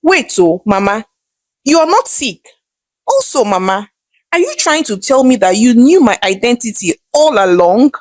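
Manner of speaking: a touch of stunned disbelief; mildly startled son questioning his mother; shocked. Acted. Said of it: "looking shocked".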